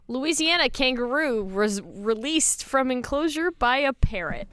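measured, announced headline; news headline read. Acted. Host reading co-hosts the headline, news read.

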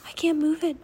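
high-pitched, lightly voiced raven; croaking raven. A narrator's reading. Raven Annie gives up on the tapestry, high and lightly croaked. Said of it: "she croaked".

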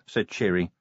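ordinary delivery, nothing marked

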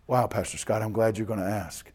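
low, softened voice; quiet confiding reply. Acted. Micah glad the pastor asked, quiet and confiding. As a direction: answer softly, as if opening up.

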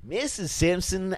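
high, slow, delighted Hutz; sleazy lawyer greeting; Lionel Hutz. Pretend. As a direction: greet her like an eager lawyer. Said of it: "Lionel Hutz".

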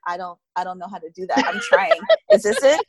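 high, laughing flustered protest; laughing mock panic. Telling a co-host how tense she gets at massages, laughing and flustered. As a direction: squeak it out like you can't relax. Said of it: "And I was like".

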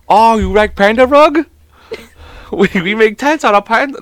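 put-on high-pitched caricatured Asian accent; hammed-up Asian accent sales patter; mock Asian accent. Continues the joking caricature.

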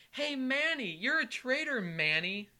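high, loud jeer from the stands; heckling yell. Retold or imitated. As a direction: taunt a player, dropping off at the end. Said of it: "kept on yelling at the people".

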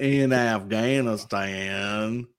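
very slow, stretched-vowel simpleton impression; slow goofy drawl, played for laughs; mock drawl. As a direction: stretch each syllable like a mock Southern innocent. Joins the Forrest Gump riff.

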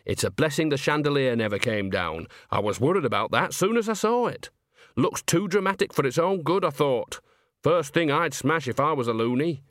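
lightly voiced folksy witch; a hint of relieved chattiness; Nanny, chatty. Nanny chatting to Granny about the chandelier, lightly relieved.

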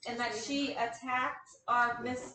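a hint of a scolding grandma; old lady. Old Ruth lectures the young hero about the wings: lightly voiced old lady.

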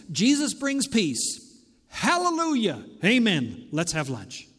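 upbeat mock wrap-up, dropping to casual; mock tidy ending. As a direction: imitate a cheery, too-easy sermon close. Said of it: "because we like this".

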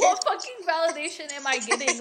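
incredulous rhetorical comeback; exaggerated, exasperated version of her reply; indignant retort. Creator answers a commenter's accusation of seeking validation, indignant. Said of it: "I didn't say it like that".

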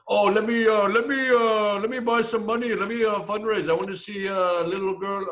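high, loud mock Chinese accent. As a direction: put on a hammy Chinese accent. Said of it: "That was my Chinese accent".

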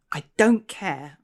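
slow, lightly snapped retort; mild snap, brushing her off. Acted. Constable brushing off the ghost, mild snap. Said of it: "I snapped".

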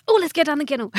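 hammed-up eager invitation; mock-casual announcement. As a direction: blurt it out as a joke, loudly. Pretends dropping the word on someone.

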